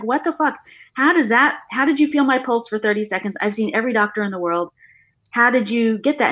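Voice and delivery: stunned what the fuck, how did you know; astonished. Retold or imitated. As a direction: replay the disbelief with pitch up high. Her retold astonished outburst.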